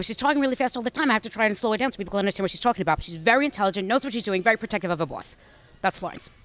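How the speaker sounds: put-on fast-talking New York accent; Florence New York accent. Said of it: "can you do an impersonation of Florence then? I wanna hear your New York accent".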